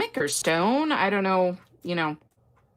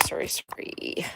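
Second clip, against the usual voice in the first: whisper; 3 semitones lower, 7 dB quieter than usual. Real, not acted. Whispered apology while setting up.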